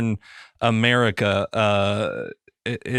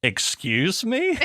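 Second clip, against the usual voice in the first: high, drawn-out mock shock; incredulous, rising high at the end; shocked disbelief; 9 semitones higher, slower than usual. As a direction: stretch it into a scandalised question. Reacting to misheard Irish slang.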